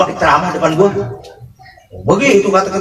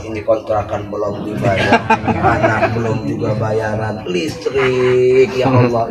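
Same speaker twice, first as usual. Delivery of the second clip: distracted worshipper; 5 semitones lower than usual. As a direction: mutter your money worries mid-prayer. Distracted worshipper praying about bills.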